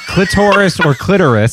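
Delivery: clitoris said two ways, cli-TOR-is then CLIT-er-is; two pronunciations. Shown as a demonstration. Co-host arguing it's the same thing, contrasting stresses on clitoris. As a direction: shift the stress between the two takes of clitoris. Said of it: "you can pronounce it".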